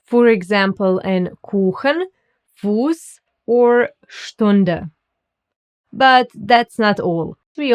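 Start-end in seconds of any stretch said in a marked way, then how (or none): 1.4-4.9 "Kuchen", "Fuß", "Stunde" with oo vowels; careful German "Kuchen, Fuß, or Stunde". Shown as a demonstration. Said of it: "It's pronounced like U".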